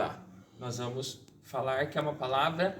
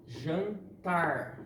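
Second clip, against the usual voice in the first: Jantar said in two parts, weight on the final tar; stress on TAR. Shown as a demonstration. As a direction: lean on the last syllable of Jantar. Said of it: "o tar é a sílaba tônica".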